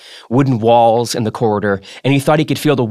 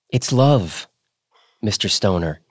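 cheerful; 3 semitones lower than usual. A narrator's reading. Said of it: "Sloane said cheerfully".

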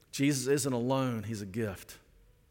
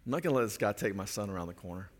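protective inner thought; 4 semitones lower, 4 dB quieter, faster than usual. Retold or imitated. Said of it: "I'm right on my son's heels".

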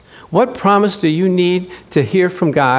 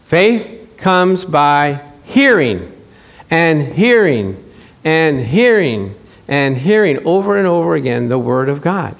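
slow emphatic preaching; 2 semitones lower than usual. Acted. Preacher drives home repetition.

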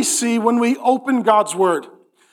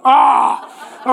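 mock exasperated groan. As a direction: groan at getting old, hammed up. Mock groan at being old.

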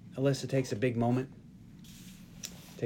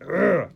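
raised, louder "ugh" of distaste; cringing groan; 4 semitones higher, 5 dB louder than usual. Retold or imitated. Retelling hearing the D word, cringing groan. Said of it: "I cringed when she said it".

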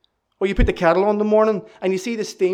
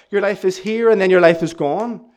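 preaching louder; 6 dB louder than usual. Acted. Climactic sermon refrain.

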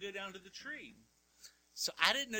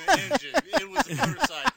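insistent loud; 8 semitones higher, 10 dB louder, faster than usual. Real, not acted. Insisting on motorcycle.

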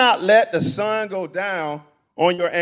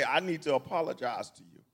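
soft apology; 7 semitones lower, 7 dB quieter than usual. Pretend. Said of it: "call somebody and say".

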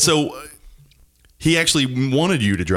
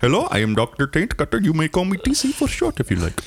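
tv doctor; 6 semitones higher than usual. Acted. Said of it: "That's why my name is Taint Cutter".

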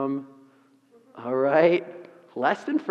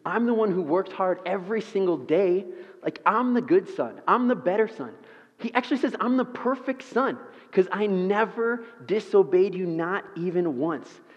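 raised, boastful mock son voice; self-righteous son; 3 semitones higher than usual. Preacher imitates the older son bragging, mock self-righteous. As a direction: brag that you're the good son. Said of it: "He says".

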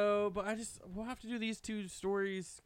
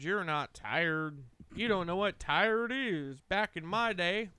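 put-on very old man. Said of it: "Are you gonna start screaming, "Get off my lawn"?".

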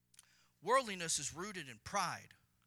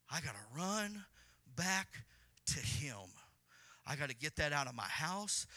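earnest resolve. Acted. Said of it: "Humility will say".

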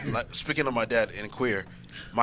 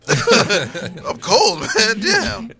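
higher, louder protest; 10 semitones higher, 10 dB louder, much slower than usual. Retold or imitated. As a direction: insist you're just cold. Retold own protest to cousin.

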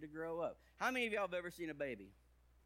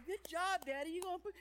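put-on high, loud little-girl cheer; toddler cheering; 4 dB louder than usual. Daughter cheering daddy through the bathroom door, high and loud. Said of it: "I could hear her clapping".

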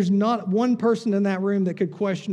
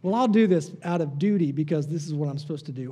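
1 grudging; faster than usual. Retold or imitated. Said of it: "just enough so we don't feel guilty".

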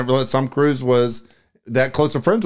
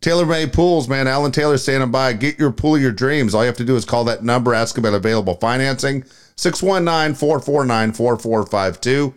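quick sponsor patter, phone number spaced out; radio ad read. Real, not acted. Host selling pools to listeners, live ad read. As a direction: rattle off the pitch, then read the number in groups.

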